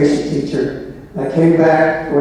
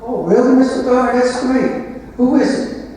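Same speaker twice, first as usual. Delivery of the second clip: put-on much higher, eager young teacher; mock excited; 9 semitones higher than usual. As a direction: pretend delight, pitched way up. Young coach hears of assistant.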